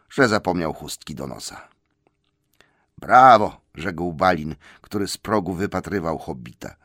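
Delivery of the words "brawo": loud, higher-pitched cheer; hearty shouted acclaim. A narrator's reading. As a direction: call out congratulations from the doorway. Balin cheers the arriving hobbit.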